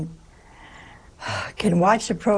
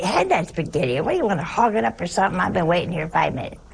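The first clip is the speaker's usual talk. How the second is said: lightly voiced Italian relative, a touch fast; a hint of an impatient relative; much faster than usual. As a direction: rattle it off like a mock-impatient sibling at dinner. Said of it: "the one over here would say".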